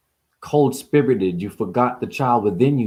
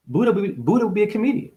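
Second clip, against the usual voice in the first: higher, fast, fired-up delivery; mock preacher; 8 semitones higher, faster than usual. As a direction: rattle it off like a wild-eyed prophet. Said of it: "Buddha would speak like this".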